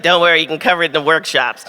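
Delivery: put-on quick, light Boston accent. Author imitating Joe in a mild Boston accent. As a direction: tease a friend with a mock Boston accent. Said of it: "That's my Boston accent".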